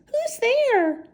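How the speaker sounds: high squeaky call; mouse cries out. Acted. Mouse calling into the dark den, high squeak. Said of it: "Mouse cries".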